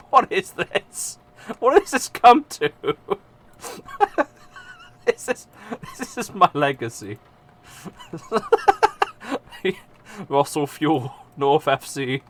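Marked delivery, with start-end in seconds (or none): 0.1-7.2 mock despair. Mock existential despair rising.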